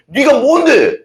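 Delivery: high, indignant snap back; a proud man talking back to his scolder; defiant retort. Retold or imitated. Preacher mimics a proud man defying rebuke, high and defiant. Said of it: "막 이러고 막 대든다는 거죠".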